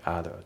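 OTHER as one joined "ad-a"; linking. Shown as a demonstration. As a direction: run the D straight into the next vowel in OTHER. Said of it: "リンキングで".

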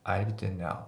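"I live there now" with there shortened to ze; reduced there. Shown as a demonstration. Teacher showing natural speech, "I live there now" with a clipped-off there. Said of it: "ほぼぜしか聞こえてない".

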